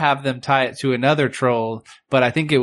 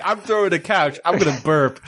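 higher goofy brute voice, laughing; dumb troll voice; 4 semitones higher than usual. Retold or imitated. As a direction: play the troll as a grinning oaf. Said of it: "They're like".

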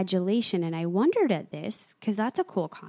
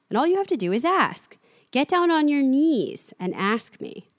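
imperious Flag; 7 semitones higher, 4 dB louder than usual. Acted. Flag offers a jailed Glenn release if he begs, imperious.

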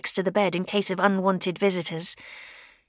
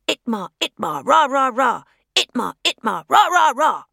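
repeated mutter; 3 semitones higher, 4 dB louder than usual. Acted. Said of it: "muttering the same thing over and over".

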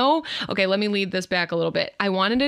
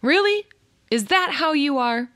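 incredulous; 7 semitones higher, 4 dB louder than usual. Real, not acted. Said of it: "mock incredulous pushback".

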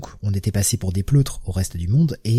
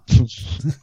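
fit of giggles. Real, not acted. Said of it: "Je pars en crise de fou rire".

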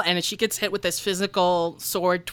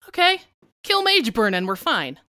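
Triss voice; 3 semitones higher than usual. Acted. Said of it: "Triss will cock her head".

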